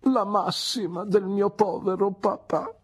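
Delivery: proudly note her father's maxim; Mrs Micawber remarking. Acted. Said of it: "osservò missis Micawber".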